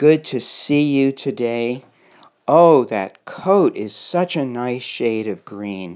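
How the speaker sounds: slow, unhurried, leisurely, easygoing delivery. Demonstrating how to greet a phlegmatic person, in a slow voice. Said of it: "but rather speak slowly".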